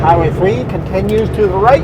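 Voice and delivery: talking through a mouthful; words round a bite of food; mouth full. Real, not acted. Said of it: "you shouldn't say that with a mouthful of food".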